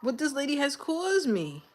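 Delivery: high fast pep talk to herself; pumping herself up, loud and high; mock self-talk. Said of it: "I said".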